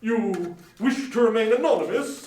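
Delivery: lightly voiced charity gentleman; polite portly gentleman. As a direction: greet him with formal politeness. Gentleman asks.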